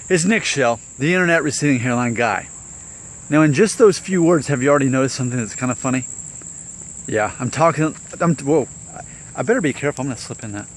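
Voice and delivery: slurred from dental anesthetic; numb mouth. Real, not acted. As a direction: talk with a numbed mouth. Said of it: "I'm talking weird 'cause they gave me a shot".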